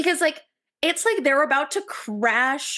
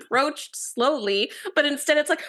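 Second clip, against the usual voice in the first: ordinary talk, nothing marked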